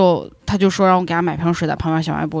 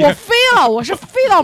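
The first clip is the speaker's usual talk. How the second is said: much higher, louder burst of disbelief; excited outburst; 13 semitones higher, 4 dB louder than usual. Real, not acted. Telling friends how the kick sent her flying, excited outburst. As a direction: blurt it out, still shocked. Recounting being kicked into door.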